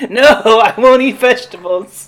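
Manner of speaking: high, loud bratty whine; whiny kid voice. Retold or imitated. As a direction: whine like a stubborn child.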